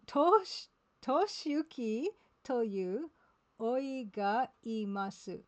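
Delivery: "Toshiyuki toyu" sounded out slowly after a loud restart; a slow attempt at the Japanese, taken syllable by syllable; slow careful retry. Shown as a demonstration. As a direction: start over loudly, then crawl through "Toshiyuki toyu oi ga imasu". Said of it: "I didn't even say that".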